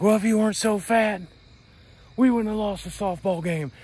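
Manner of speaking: high mocking schoolyard taunt; mocking bully. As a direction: mimic the smart-ass kid who teased you. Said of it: "And he'd say things like".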